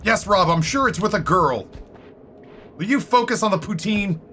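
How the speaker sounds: high-pitched, pleading exasperation with falling endings; mock exasperation. Acted quarrel with Rob over poutine.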